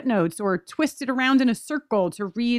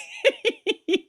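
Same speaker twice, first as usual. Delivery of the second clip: squeaky laughter; giggling helplessly; high laugh. Real, not acted.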